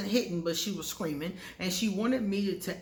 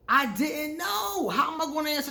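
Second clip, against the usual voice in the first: helpless; 8 semitones higher, 4 dB louder than usual. Real, not acted. Stuck under ex's questions.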